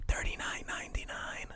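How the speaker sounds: soft, close, quiet whisper. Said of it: "And then I'll whisper into his ear".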